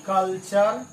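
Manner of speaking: कल्चर ending in chur; ture as chur. Shown as a demonstration. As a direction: say कल्चर with ch, not tur. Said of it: "आपको चर पढ़ना है".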